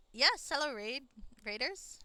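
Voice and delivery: loud, high yes hello; loud delighted hello; excited greeting. Real, not acted. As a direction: burst in to greet the newcomers. Greeting raiders mid-sentence.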